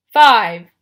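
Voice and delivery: one booming, falling monster word; haggling Cyclops. A narrator's reading. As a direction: bark it very loud, pitch dropping.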